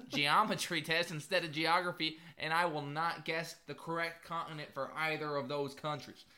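a lightly done, bad Southern American accent. Co-host mocking soccer fans in a weak Southern accent. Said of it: "It was a really bad southern accent".

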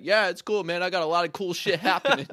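lifted, carefree mock reply; breezy mock reply. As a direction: brush it off cheerfully, imitating obliviousness. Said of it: "and then you're like".

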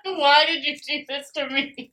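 laughing through the words; helpless giggling plea. Real, not acted. Laughing fit.

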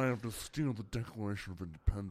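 a hint of Nicolas Cage, urgent; half-hearted Cage voice; Nicolas Cage impression. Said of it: "an impression?".

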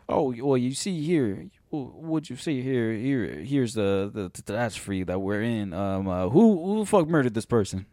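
lightly drawled mock Southern detective; a hint of a Southern sleuth accent; mock Daniel Craig Southern accent. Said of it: "His accent is very specific".

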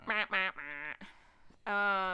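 loud "wah wah" sound effect; mock sad trombone. Capping the customer service letdown, mock sad trombone. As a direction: voice a comic losing horn.

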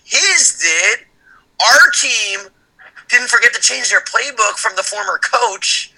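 lightly hyped trash-talk promo; wrestling promo. Acted. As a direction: cut a promo on the rival. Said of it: "This is a wrestling promo".

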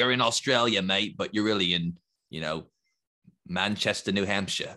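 put-on butchered Australian accent. Joking to co-host about Outback's theme, butchered Australian accent. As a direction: have a rough go at an Australian accent. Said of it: "gonna butcher Australian accents".

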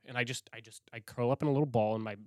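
ordinary delivery

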